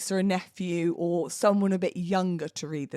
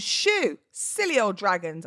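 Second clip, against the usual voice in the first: shouted; slower than usual. Acted. Boy in the poem scaring off dragons, playful shout. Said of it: "I shouted".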